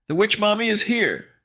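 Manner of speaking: high, loud wicked announcement; sinister villain. A narrator's reading. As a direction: announce yourself like a wicked witch. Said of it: "sinister voice whispered".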